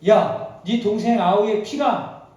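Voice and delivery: a loud, slow call of rebuke; stern call out. Acted. God calling Cain to account, loud and slow. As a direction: call him out sternly, slowly.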